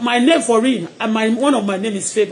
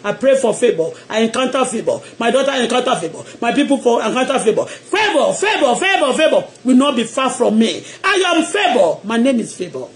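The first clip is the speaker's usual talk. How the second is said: prayer declaration; 2 semitones lower than usual. Shown as a demonstration. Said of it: "Say to yourself".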